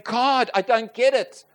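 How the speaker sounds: slow, loud cry of grief at the morgue; anguished plea to God. Retold or imitated. Widower in the morgue crying out slowly to God. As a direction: ask God why, slow and raw.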